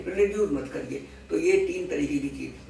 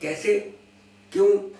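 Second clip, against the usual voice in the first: "कैसे?" then "क्यों?" higher and louder, clipped short; sharp questions; 4 semitones higher, 5 dB louder than usual. Shown as a demonstration. Showing the listener how tone changes meaning, sharp questions. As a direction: punch each word as a demanding question. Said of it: "एक ही शब्द को आप हिंदी में बोलिए".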